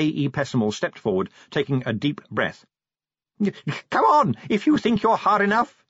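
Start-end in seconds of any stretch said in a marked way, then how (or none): 3.9-5.9 high-pitched, wild challenge; wild scream. A narrator's reading. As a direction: scream a dare at the enemy. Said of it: "he screamed wildly".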